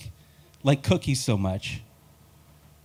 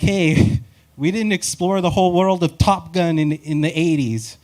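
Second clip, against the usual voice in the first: movie studio voice; 4 semitones higher, 3 dB louder than usual. Retold or imitated. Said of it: "They're like".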